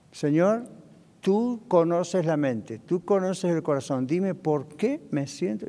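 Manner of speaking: slow, measured, pleading prayer; earnest prayer. Acted. Believer asking the Lord about discouragement, praying. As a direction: address God unhurriedly, phrase by phrase.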